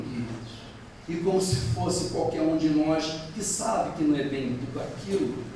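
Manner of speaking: ordinary delivery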